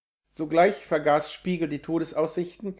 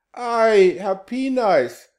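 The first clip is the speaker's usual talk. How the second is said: high, loud "Ei", then slow; cat startled by his master's reproach; surprised exclamation; 6 semitones higher, 7 dB louder, much slower than usual. A narrator's reading. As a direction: exclaim in surprise, drawing out the name. Cat answers the sorcerer.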